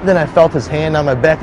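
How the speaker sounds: usual speaking voice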